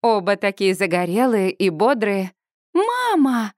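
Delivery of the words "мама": high excited squeal of Mama; shrieking call. A narrator's reading. Daughter squealing to her parents across the street. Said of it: "визжу я".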